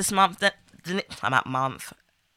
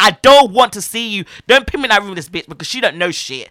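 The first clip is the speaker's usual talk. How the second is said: vexed rant; 5 dB louder than usual. Retold or imitated. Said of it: "I'm like".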